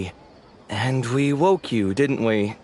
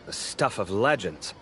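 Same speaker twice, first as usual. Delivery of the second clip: sarcastic; slower than usual. Acted. Mocking colleague's work ethic.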